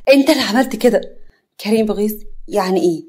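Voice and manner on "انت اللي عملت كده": rising blame. Acted. Nagwa blames Karim.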